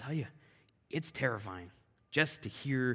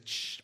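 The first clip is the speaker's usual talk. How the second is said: imitated snake hiss; 6 dB quieter than usual. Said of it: "I'm hearing this".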